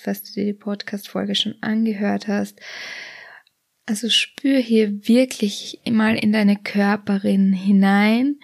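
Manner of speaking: soothing body scan narration; guided meditation. Acted. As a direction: lead the listener gently through a body scan.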